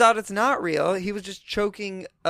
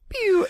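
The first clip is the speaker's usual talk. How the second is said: pew sound effect; 4 dB louder than usual. Retold or imitated. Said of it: "be like".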